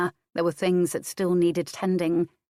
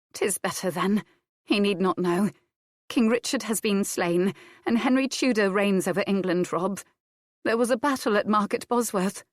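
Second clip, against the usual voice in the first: grave news; 3 semitones higher than usual. Acted. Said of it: "Adair told him".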